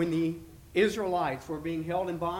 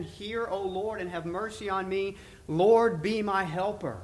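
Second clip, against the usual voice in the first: solemn, measured Bible reading with swelling calls of O Lord; scripture reading; 2 semitones higher than usual. Acted. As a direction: read the psalm like a prayer from the pulpit. Quotes verse ten.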